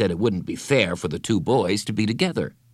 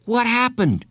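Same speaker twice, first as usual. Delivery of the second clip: excited question; 13 semitones higher, 4 dB louder than usual. Acted. Excited confusion after the race.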